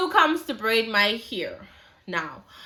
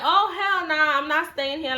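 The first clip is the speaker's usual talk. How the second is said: indignant refusal; 6 semitones higher than usual. Retold or imitated. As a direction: toss it off like an offended friend. Impatient friend refusing to stay.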